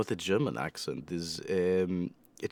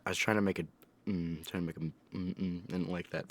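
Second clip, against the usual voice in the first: quiet; 3 semitones lower, 8 dB quieter than usual. Real, not acted. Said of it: "Ew, I hated that".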